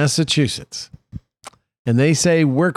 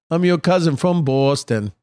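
pitched-up, hammed-up Massachusetts accent; mock Massachusetts accent; 3 semitones higher, slower than usual. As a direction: play a Boston cousin in a thick Massachusetts accent. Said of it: "in that Massachusetts accent".

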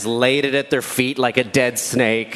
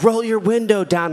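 calling out; 7 semitones higher than usual. Retold or imitated. Other driver calling across cars.

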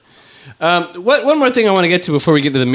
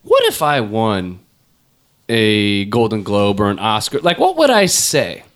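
slow dreamy musing; 4 semitones lower, slower than usual. Retold or imitated. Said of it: "You go".

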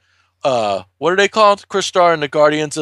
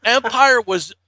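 slow, high hammed-up lament, building to a shout; dramatic hero; 6 semitones higher, slower than usual. Retelling the comic's hero, hammed-up anguish building to a shout. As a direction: ham up a hero's anguished realization. Hero's dramatic monologue retold.

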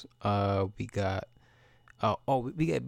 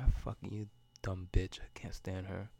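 hushed, breathy insult under the breath; whisper; 3 semitones lower, 7 dB quieter than usual. Real, not acted. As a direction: spit it out in a low whisper, soft and unvoiced.

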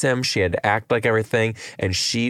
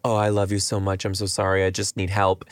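groveling. Retold or imitated. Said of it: "then he grovels".

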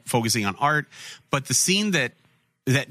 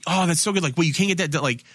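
higher, mock-impressed gush; gushing praise; 4 semitones higher than usual. People praising the young artist, mock gushing. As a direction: pile on the compliments, imitating admirers.

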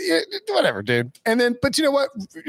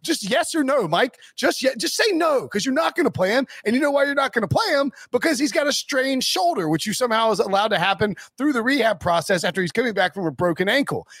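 heated rant; 6 semitones higher than usual. Real, not acted. Ranting at the coach.

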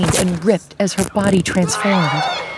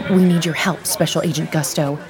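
drill sergeant voice. Acted. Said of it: "She dropped her voice, trying to sound like a drill sergeant".

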